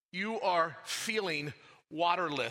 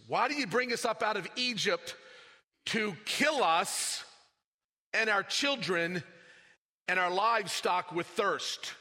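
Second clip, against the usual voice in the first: higher, louder, bitter accusation; accusing complaint; 4 semitones higher, 4 dB louder than usual. Shown as a demonstration. Preacher acting the grumbling Israelites, an accusing complaint. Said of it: "listen to the language here".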